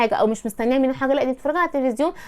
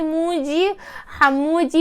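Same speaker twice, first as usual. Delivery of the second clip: slow, softer, pampered call; coy pet name; 2 semitones higher, 4 dB quieter, much slower than usual. Retold or imitated. Coach shows the wife calling her husband, slow soft coo. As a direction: coo his nickname sweetly and slowly. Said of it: "تقولي".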